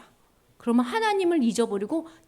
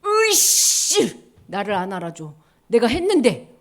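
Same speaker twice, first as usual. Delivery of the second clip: sulky grumble; 3 semitones lower, 6 dB louder than usual. Acted. Upset child grumbling.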